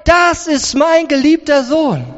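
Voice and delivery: high, forceful proclamation; jubelnd ausgerufen. Acted. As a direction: cry it out like God from heaven. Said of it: "Gott schreit". (jubelnd vom Himmel gerufen)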